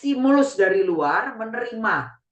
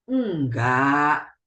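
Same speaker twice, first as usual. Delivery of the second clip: gentle no; 8 semitones lower, much slower than usual. Shown as a demonstration. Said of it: "lain pesan emosi yang diantar".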